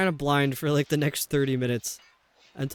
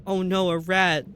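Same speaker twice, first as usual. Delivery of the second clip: hammed-up little gasp of alarm, a bit louder; mock alarm; 4 semitones higher, 4 dB louder than usual. Shown as a demonstration. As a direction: play fake panic at a rat. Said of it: "I did record it".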